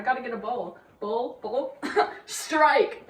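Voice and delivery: laughing. Real, not acted. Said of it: "the worst joke I've ever made".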